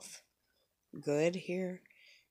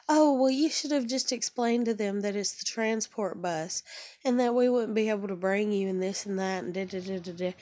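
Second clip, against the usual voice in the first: higher, lecturing staff voice; condescending pitched-up explanation; mock bus staff; 3 semitones higher than usual.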